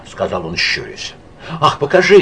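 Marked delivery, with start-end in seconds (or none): 1.6-2.2 louder, higher eager call. A narrator's reading. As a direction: call out to see the drawing. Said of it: "крикнула Лида".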